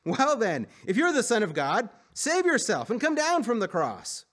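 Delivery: mocking yell. A narrator's reading. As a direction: heckle him as a passerby. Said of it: "they yelled at him".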